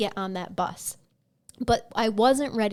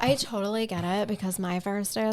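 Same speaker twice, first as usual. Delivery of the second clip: put-on Valley Girl voice. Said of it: "You do that way too well".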